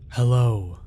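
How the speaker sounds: put-on old woman speaking through her hand; muffled, covered-mouth greeting. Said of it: "a muffled voice called in my ear".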